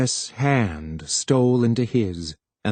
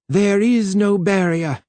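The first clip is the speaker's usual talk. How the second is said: cried out; 8 semitones higher than usual. A narrator's reading. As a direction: cry it out in disbelief. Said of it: "Then Twistle cried".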